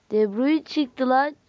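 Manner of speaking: slow thrilled exclamation; slow excited surprise. Real, not acted. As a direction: savour the surprise pull. Surprised at De Bruyne reveal.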